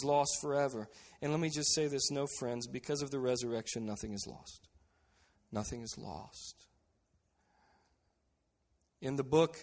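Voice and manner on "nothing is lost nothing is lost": soft, weighty repetition; hushed. Real, not acted. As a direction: let the words sink in quietly. Quiet emphatic resurrection point.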